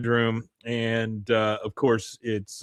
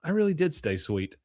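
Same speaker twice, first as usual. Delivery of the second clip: Peggy; 4 semitones higher, 3 dB quieter than usual. Retold or imitated. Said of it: "she goes".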